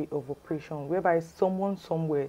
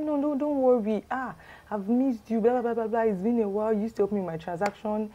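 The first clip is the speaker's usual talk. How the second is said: higher-pitched, effusive imitation of a caller; acted friendly reassurance; 5 semitones higher than usual. Scammer buttering up an old friend, imitated reassurance. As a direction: wave away the worry, pitched up.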